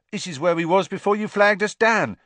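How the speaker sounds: put-on high, loud cocky young conductor voice; Stan the conductor. A narrator's reading. Conductor showing off to Harry, cocky and high. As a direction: brag about the bus with a grin.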